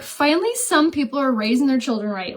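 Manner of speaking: high, excited finally; delighted outburst. Retold or imitated. Mom hearing the boy brought flowers, delighted high exclaim. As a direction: burst out with relieved delight.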